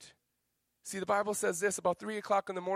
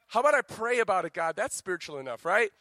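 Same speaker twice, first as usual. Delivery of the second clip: mock excuse; 3 semitones higher, 6 dB louder than usual. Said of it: "you're like".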